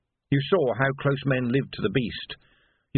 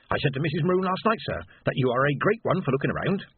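chatty porter; 4 semitones higher than usual. Acted. Porter Maroon speaks.

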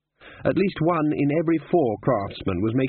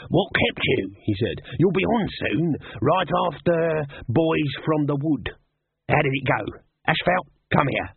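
pushy higher salesman voice; hurried, wheedling promoter; fast-talking hustler; 4 semitones higher, slower than usual. Acted.

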